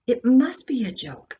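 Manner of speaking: a touch of rising panic, telling herself; half-convinced self-reassurance; mild disbelief. Acted. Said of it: "Andrea repeated this over and over".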